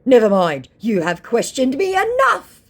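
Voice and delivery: high, loud sulky put-on voice; mocking the scammer's huff. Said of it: "he said".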